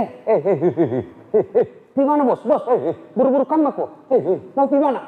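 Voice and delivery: nosy townsman hailing a passer-by; curious townsman. Acted. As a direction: stop the man in the street and pester him. Townsman stops Umar on road.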